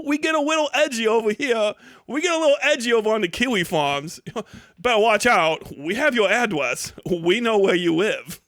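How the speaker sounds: mock-sinister taunt with giggles; mock menace. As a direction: play the edgy internet tough guy, laughing. Mocking edgy forum threat.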